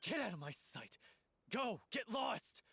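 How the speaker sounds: furious send-off; angry dismissal. Acted. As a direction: throw him out. Driving him away.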